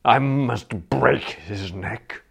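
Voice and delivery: wistful. Acted. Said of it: "A wistful look came into his face".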